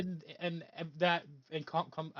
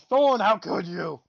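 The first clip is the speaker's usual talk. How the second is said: mock betrayal; 7 dB louder, slower than usual. Mock betrayal at party member.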